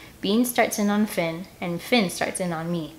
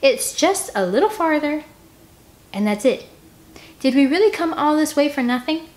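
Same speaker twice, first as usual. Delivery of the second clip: raised pleading; 7 semitones higher, 4 dB louder than usual. Acted. Pleading to arguing scouts.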